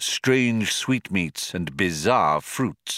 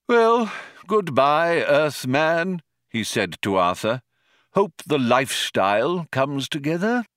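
sad farewell; 6 semitones higher than usual. Acted. Old man leaves sadly.

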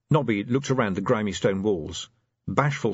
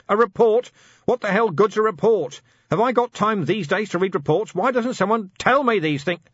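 loud, much higher angry tirade; furious shout; 12 semitones higher, 5 dB louder than usual. A narrator's reading. Vimes raging at Fred about unread reports, furious shout. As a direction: bellow at the squad.

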